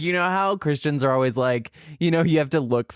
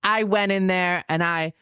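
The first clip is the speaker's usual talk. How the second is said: slightly raised, drawling retold voice; Grace Lilly impression; 3 semitones higher than usual. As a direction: mimic a reality star telling her exploit. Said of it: "and she's like".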